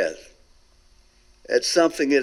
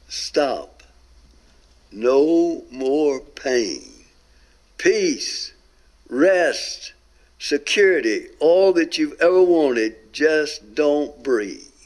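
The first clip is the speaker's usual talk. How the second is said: seductive soothing voice; much slower than usual. Retold or imitated. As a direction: lull him toward letting go, very slowly. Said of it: "the most beautiful voice I've ever heard".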